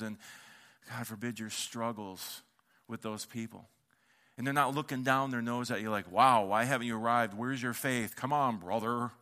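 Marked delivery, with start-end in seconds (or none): 6.1-9.1 religious voice. Retold or imitated. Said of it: "I must be the religious voice".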